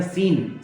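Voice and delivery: सीन starting on a single S sound; silent C. Shown as a demonstration. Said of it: "सी को drop कर देंगे".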